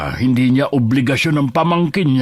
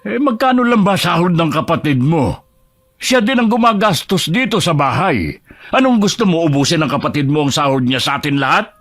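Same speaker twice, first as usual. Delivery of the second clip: raised, higher-pitched indignant questioning; angry; 3 semitones higher than usual. Acted. Father defending one child against the other, angry. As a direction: scold her with heated rhetorical questions. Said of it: "Hindi mo kailangan magalit".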